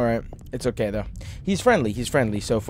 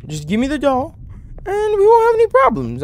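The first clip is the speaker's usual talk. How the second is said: nervous bargaining; 14 semitones higher, 3 dB louder than usual. Real, not acted. Bargaining with a creepy figure.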